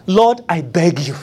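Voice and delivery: slow sincere plea. Shown as a demonstration. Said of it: "Just say what's in your heart".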